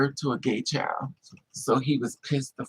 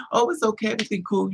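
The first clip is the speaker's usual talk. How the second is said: playing it off; 6 semitones higher, faster than usual. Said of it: "he played it all off, laughing and stuff".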